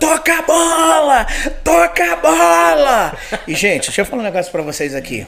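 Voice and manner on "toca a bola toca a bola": very slow drawn-out shout, "bola" stretched. Retelling yelling at the nephews during a football game, re-enacting a shout. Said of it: "Aí eu tô gritando".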